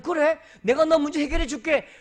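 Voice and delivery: high, loud confident reassurance; God's easy promise. Retold or imitated. God answers Elijah's complaint, high and loud. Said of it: "엘리야가 이렇게 말하면".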